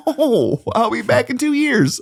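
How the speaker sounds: high mock-huffy retort; upset moviegoer storming off, voiced high; sarcastic. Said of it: "And I was like".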